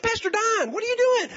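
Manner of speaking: high, puzzled exclamation; surprised dad. Retold or imitated. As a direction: sound startled to hear the pastor. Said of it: "He's like".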